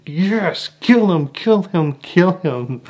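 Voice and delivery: egging Thor on from the seat; excited cheer. Retold or imitated. Viewer urging Thor on at the climax, excited cheer. Cheering Thor's axe strike.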